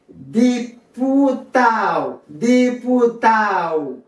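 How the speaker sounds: diputado drawn out as "di-pu-TAO", no D before the O; "diputado" with the last D silent; dropped D. Shown as a demonstration. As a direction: say diputado slowly, gliding the A into O. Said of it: "ou qu'à prononcer ou qu'à pas".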